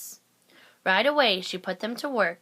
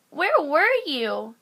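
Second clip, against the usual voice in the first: eager question; 7 semitones higher, 6 dB louder, slower than usual. A narrator's reading. Kids eagerly asking.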